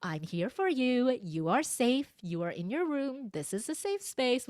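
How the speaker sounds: reassuring tone of voice. Retold or imitated. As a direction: tell a child gently that all is safe. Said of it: "tone of voice".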